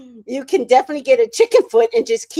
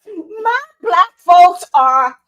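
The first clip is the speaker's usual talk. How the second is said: high, slow, drawn out through laughter; loud laughing praise; laughing shout; 6 semitones higher, 7 dB louder, much slower than usual. Real, not acted. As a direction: stretch it out while cracking up. Overcome with laughter.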